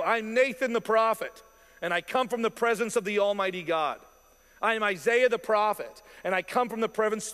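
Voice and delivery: a commanding prophet, proudly declaring himself; booming prophet proclamation. Retold or imitated. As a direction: announce yourself like a prophet before a king.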